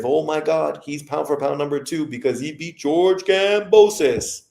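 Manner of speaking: lightly voiced mocking boxing fan. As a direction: sneer it like a starstruck fan. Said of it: "As if".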